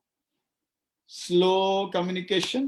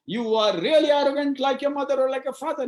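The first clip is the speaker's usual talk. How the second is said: scolding parent; 5 semitones higher, 5 dB louder than usual. Shown as a demonstration. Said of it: "Or you don't say".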